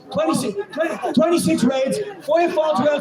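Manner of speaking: angry tally shouted at the rally; indignant shout. Real, not acted. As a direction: hammer each number out. Listing raids at the crowd.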